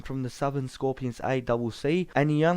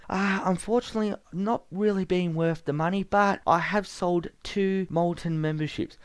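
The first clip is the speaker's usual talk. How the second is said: higher, sheepish reporter voice; Ben Tover's voice; 5 semitones higher than usual. Acted. Ben admitting to host he sold little, higher voice. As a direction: own up like an apologetic junior.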